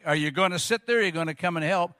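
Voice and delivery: a mock-gentle request; wife asks sweetly where a stranger hears; very kind voice. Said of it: "in a very kind voice".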